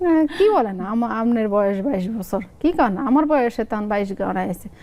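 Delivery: lively two-sided Lakshmipur dialect skit. Shown as a demonstration. Mother and son arguing over her age, in Lakshmipur dialect. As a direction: act out the squabble in Lakshmipur regional speech. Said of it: "আমি আঞ্চলিক ভাষায় বলি".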